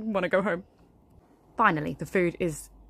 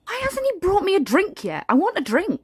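much higher, whining for a drink; whiny craving; 12 semitones higher, 4 dB louder than usual. Acted. Bored mother at children's party begging for wine, whiny. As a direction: whine like you need wine now.

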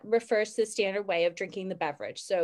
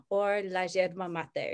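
Uruguayan sh; 2 semitones lower than usual. Shown as a demonstration. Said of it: "we're gonna get to the sh again".

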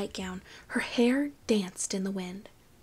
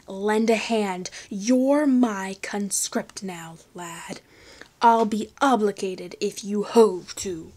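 pirate threat; 4 dB louder than usual. Acted.

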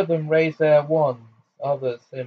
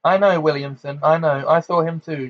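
higher, louder panicky babble; gibbering; 3 semitones higher, 5 dB louder than usual. Acted. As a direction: gabble it out in fright. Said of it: "gibbered Fudge".

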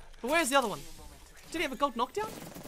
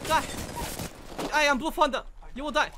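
loud, raised mock-epic threat; heroic battle cry; 5 semitones higher, 6 dB louder, faster than usual. Player proclaims himself Blue Thunder, heroic battle cry. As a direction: declare doom on the enemy.

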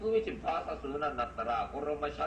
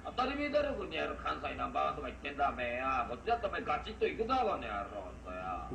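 angry shouting. Real, not acted. Rival shouts back in quarrel.

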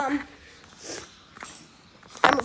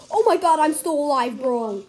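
surprised; 3 semitones higher, 6 dB louder than usual. Real, not acted. Surprised to survive.

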